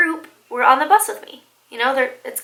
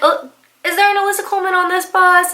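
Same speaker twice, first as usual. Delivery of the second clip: raised voice asking the bus; calling out; 6 semitones higher, 4 dB louder, faster than usual. Retold or imitated. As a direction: call down the bus aisle.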